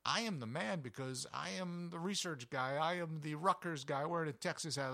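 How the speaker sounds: playful boast; proud retort. Retold or imitated. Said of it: "standing with pride going".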